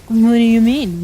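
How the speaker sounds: baffled. Real, not acted. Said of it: "I was like".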